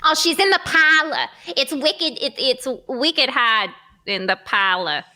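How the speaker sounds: wicked hard in the parlah, Boston style; Boston accent. Shown as a demonstration. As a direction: drop the r in parlor, Boston. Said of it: "we'll start Boston".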